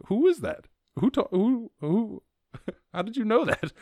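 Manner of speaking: high amazed squeaky voice; amazed friends. Retold or imitated. Friends marvel at his Heimlich in high amazed squeaky voice. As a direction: gasp it out in amazement.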